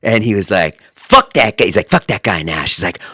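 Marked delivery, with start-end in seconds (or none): 0.9-1.6 mock outrage, loud and raised; Hajar upset. Podcaster retelling his friend's rare anger, mock outrage. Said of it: "I've never seen Hajar be upset". 1.9-2.8 mild mock outrage, a little louder; Hajar upset. Friend complaining to podcaster, mildly mock upset. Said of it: "I've never seen Hajar be upset".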